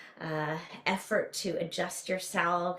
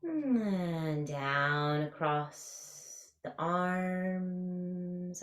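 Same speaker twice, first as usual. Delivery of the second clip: guided meditation. Real, not acted. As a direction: ease them through a body scan, stretching key words.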